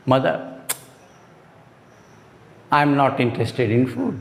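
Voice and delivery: slow model sentence. Shown as a demonstration. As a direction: say it slowly for the class to copy. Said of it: "आप इस तरह से बोलो".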